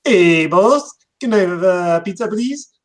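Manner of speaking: a chirpy cartoon customer voice; Filthy Frank bit. Quoting a Filthy Frank bit to his friend, in a high cartoon voice.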